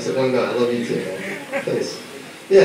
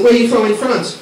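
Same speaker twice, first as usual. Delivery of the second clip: faux French accent; 4 semitones higher than usual. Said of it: "I put on my faux accent".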